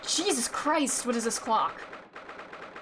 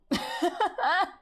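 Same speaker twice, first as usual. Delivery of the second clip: high-pitched burst of laughter; real amused laugh; 7 semitones higher than usual. Real, not acted. Laughs at own silly voice.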